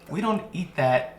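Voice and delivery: high-pitched fairy voice. Acted. Fairies turning down the food, high-pitched. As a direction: speak as a high little fairy with a laugh in it. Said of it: "The, the fairies go".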